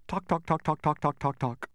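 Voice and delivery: evenly spaced clock tocks; mechanical, regular tocking; imitated clock ticking. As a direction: tick off the beats like a clock. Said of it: "because he goes".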